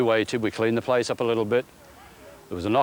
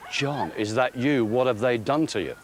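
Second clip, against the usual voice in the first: retold disbelief. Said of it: "and I said".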